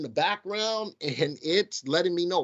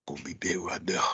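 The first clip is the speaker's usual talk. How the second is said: mock Southern accent; 8 semitones lower, 5 dB quieter than usual. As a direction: say it again in a whispered Southern twang. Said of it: "it's my Southern accent".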